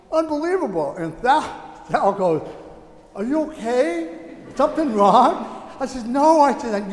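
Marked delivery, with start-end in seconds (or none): 0.1-0.9 retold amazement. Moved to tears, retelling amazement. 3.1-5.6 retold concern. Wife asks as tears flow. 6.1-6.4 retold happy excitement. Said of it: "how happy I am".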